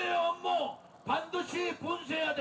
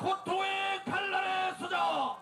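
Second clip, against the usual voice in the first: slow rally shout; 3 semitones higher, slower than usual. Real, not acted. Leader call.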